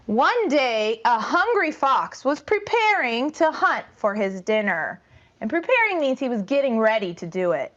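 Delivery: put-on lively read-aloud for young kids; storytime narration. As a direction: tell it to a class, lively.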